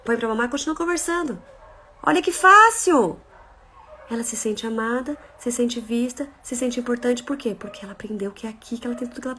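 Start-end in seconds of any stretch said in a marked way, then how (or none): 2.0-3.2 ironic delight. Acted. Ironic exclamation.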